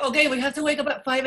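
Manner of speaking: laughing while quoting. Retold or imitated. Retold dance-all-night joke.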